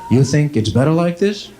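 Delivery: leading question with a suspicious rise; tricky eye doctor. Acted. Eye doctor seeming to trick a patient, lightly mimicked. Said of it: "You think he's trying to trick you".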